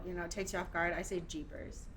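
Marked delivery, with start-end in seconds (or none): 1.3-1.8 whispered. Shown as a demonstration. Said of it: "It's almost like a scream".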